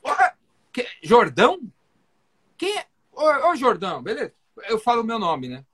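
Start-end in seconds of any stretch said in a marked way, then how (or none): 0.1-4.3 surprised doctor. Retold or imitated. Doctor caught off guard, perks up.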